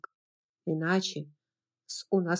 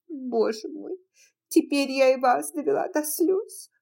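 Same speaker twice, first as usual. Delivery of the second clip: tearful aunt; 6 semitones higher than usual. Acted. Pitty tearful.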